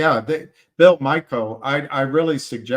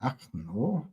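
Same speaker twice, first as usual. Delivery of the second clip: softer, half-hearted Scottish attempt; one more feeble try at a Scottish accent; bad Scottish accent; 7 dB quieter than usual. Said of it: "I can't do the accent".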